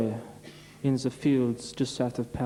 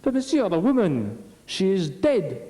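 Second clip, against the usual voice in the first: urgent; 5 semitones higher than usual. Acted. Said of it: "He says".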